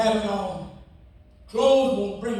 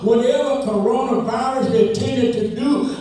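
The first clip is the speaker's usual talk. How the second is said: preaching at full force. Acted. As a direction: preach it out to the congregation.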